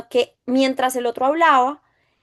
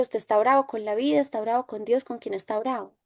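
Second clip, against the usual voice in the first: soft, calm questions fading quieter; gentle questioning; 4 dB quieter than usual. Retold or imitated. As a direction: ask gently, drawing him out. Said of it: "y yo le decía". (preguntas suaves y tranquilas, cada vez más bajas)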